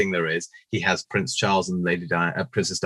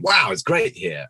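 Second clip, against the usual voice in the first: mock enthusiasm; 7 semitones higher, 4 dB louder, slower than usual. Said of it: "he's going".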